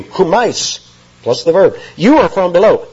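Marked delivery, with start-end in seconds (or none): 2.0-2.9 "You" pitched high and stressed; raised-pitch quote with weight on "You"; emphatic YOU. Acted. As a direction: hit "You" firmly at the start. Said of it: "That's the pronoun you".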